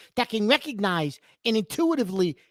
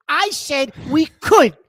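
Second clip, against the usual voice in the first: "could" hit hard and loud at the end; slow down and land firmly on "could"; stress on could; 2 semitones higher, 5 dB louder, slower than usual. Real, not acted. Co-host defends what he said about losing, stressing "could". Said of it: "The word there was could".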